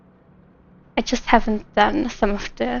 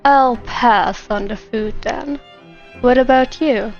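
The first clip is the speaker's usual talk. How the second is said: attempted male voice. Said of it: "You want me to do a male voice".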